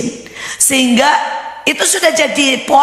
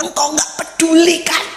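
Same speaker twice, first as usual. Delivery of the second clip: retold tearful plea; 7 semitones higher than usual. Preacher retells a friend's morning prayer, tearful plea. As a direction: act out a tearful complaint to God. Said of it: "saya baru nangis sama Tuhan".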